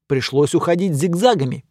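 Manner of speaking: ordinary delivery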